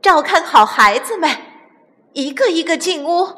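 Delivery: high, urgent instructions; calling out orders. A narrator's reading. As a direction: marshal everyone indoors. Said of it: "大喊道".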